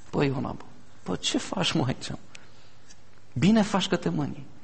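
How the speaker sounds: soft, gentle, tender voice.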